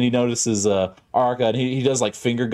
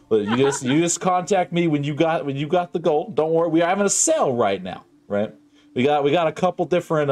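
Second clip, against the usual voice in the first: a slick, eager sales pitch, pitched up; pushy salesman. Acted. Guild agent pitching padlocks to a resident, slick and eager. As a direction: hawk padlocks like a market trader.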